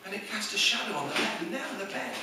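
suspense storytelling. Acted. Comedian reveals the moonlit bedroom, hushed suspense. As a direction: build dread quietly, pausing between phrases.

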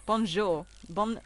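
French-accented bonjour; French pronunciation. Shown as a demonstration. Streamer saying bonjour on a viewer's request, French accent. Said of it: "can you say bonjour".

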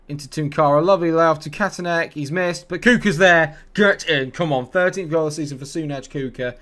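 real jubilant celebrating call; goal celebration. Real, not acted. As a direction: roar as the goal goes in. Goal scored live.

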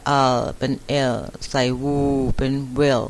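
short e blended with l, then "wu" added to make "well"; sounding out well. Shown as a demonstration. Teacher showing how well is formed, sounded out piece by piece. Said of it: "อันนี้เป็นเสียงสั้น".

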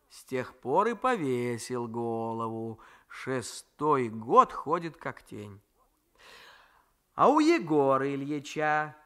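lightly voiced old grandmother, slow and chiding; a hint of a fond, grumbling old woman; grandmother's voice. Grandmother gives her example.

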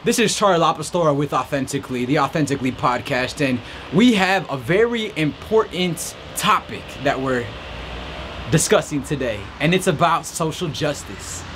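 light news anchor intro; reporter voice. Pretend. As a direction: sign on like a reporter. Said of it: "I'm back in reporter mode".

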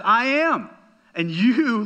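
emphatic preacher quoting a bold claim; bold declaration. Retold or imitated. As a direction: declare it openly to your accusers, high and loud. Jesus openly declares himself before accusers.

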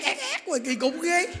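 high, squawky imitation of yelling; playful high-pitched screech; mock screeching. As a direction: mimic someone screeching on and on. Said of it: "Chứ đâu tự hét".

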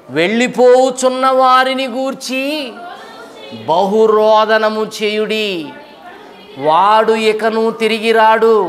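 slow, declaimed Bible verse; scripture reading. Acted. Preacher reads the prophet's verse to the congregation, slow and declamatory. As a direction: proclaim the verse slowly, stretching the words.

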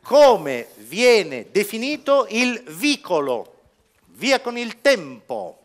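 slow, deliberate question reading; quiz question read. Acted. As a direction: read the question slowly and clearly. Reads question slowly. (lettura lenta della domanda del quiz)

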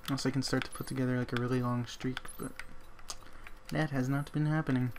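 put-on weak British accent, barely there; mock posh British, half-hearted; bad British accent. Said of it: "You don't know why I'm talking in a British accent".

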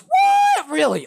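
very high, loud incredulous what; shocked what. Real, not acted. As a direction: squeal it in disbelief. Reacting to preferring Minecraft over Legos.

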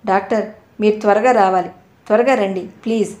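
a touch of grief-stricken urgency, lightly voiced; pleading father on the phone, holding back tears; mild trembling plea for the doctor to hurry; voice about to break. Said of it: "ఆయన గొంతులో దుఃఖం బ్రద్దలవడానికి సిద్ధంగా కంపించిపోతోంది".

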